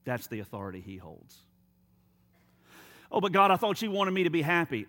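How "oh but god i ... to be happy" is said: mock protest. Believer objecting to God about being happy, mock plaintive. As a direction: plead like a let-down believer, pitched up.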